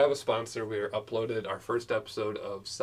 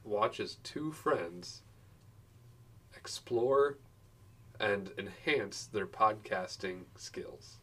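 slow reading voice; much slower than usual. Shown as a demonstration. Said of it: "In our bio description, I put".

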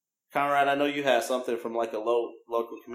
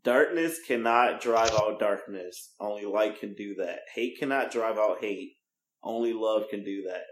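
hushed churchy voice; 5 semitones lower than usual. Shown as a demonstration. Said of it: "I'm gonna get my preacher voice on. No, I'm not".

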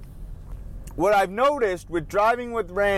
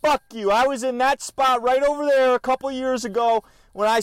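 angry rant; 6 semitones higher than usual. Real, not acted. Venting at the clerk who snubbed him, indignant rant. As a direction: vent the grudge, building heat. Ranting about rude store clerk.

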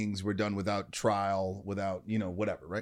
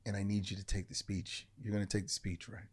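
intent plea; 8 dB quieter than usual. Retold or imitated. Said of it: "she looks me dead in the eye".

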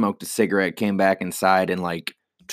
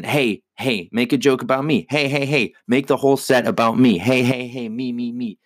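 lightly voiced pushy heckler, a bit higher; imitating an attention-hungry heckler, only lightly; mocking the heckler; 3 semitones higher than usual. Comedian mimicking a heckler demanding attention, lightly voiced. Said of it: "who just insisted on".

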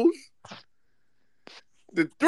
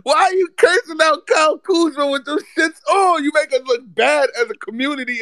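mock outrage; 5 semitones higher than usual. Real, not acted. Roasting Ari's sneakers, outraged.

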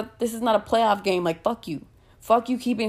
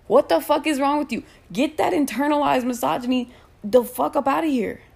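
higher, heated outburst; angry outburst; 5 semitones higher than usual. Real, not acted. A streamer scolding misogynist commenters, angrily. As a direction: blast them for their misogyny.

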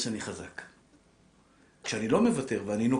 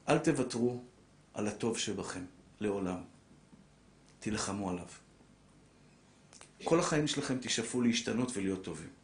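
solemn plea; 4 semitones lower, 4 dB quieter than usual. Acted. Solemn final exhortation.

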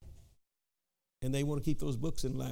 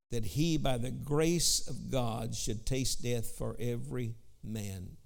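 scripture reading. Acted. Preacher reads Hebrews aloud.

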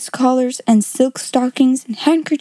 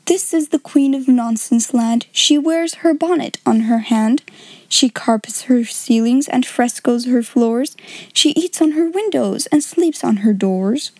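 sing-song recited rhyme; nonsense jingle. Shown as a demonstration. The reader recites a nonsense rhyme, playful and sing-song. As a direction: recite it like a playful nursery verse. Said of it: "This jingle is called".

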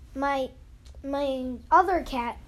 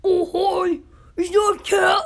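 high, loud excited cry; excited squeal; 5 semitones higher, 8 dB louder than usual. Retold or imitated. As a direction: gush at the cat in a shout. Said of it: "I was like".

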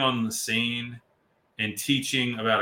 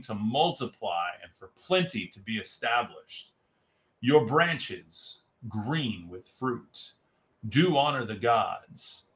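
dramatic slow movie narrator; movie trailer voice. Shown as a demonstration. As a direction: read it like an epic trailer. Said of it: "I'll do the, the, the movie voice".

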